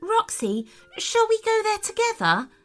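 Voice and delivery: high, sweet polite request; high-pitched, quick polite question. A narrator's reading. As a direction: ask politely in a high character voice. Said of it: "asked Sophia politely".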